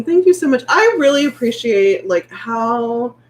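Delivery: grateful. Real, not acted. Thanking supportive viewers, moved.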